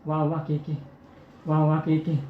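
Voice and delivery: put-on a weak old woman straining to get the words out; feeble old granny. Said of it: "आजी हळूच कसं म्हणते". (मरणासन्न आजीचा हळू, क्षीण आवाज)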